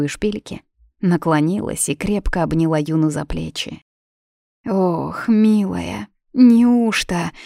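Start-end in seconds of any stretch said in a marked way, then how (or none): none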